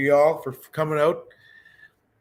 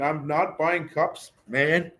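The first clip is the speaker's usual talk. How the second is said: definite statement; 2 semitones higher, slower than usual. Shown as a demonstration. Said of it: "That sounds pretty definite".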